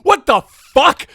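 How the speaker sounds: exasperated shouting, stretched out for effect; outraged rant. Acted. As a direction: hammer each phrase in comic disbelief. Mock rant about show's genre.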